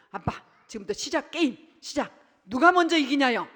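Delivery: put-on child calling out a game challenge to dad; excited kid challenge. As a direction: egg the dad on like an eager child.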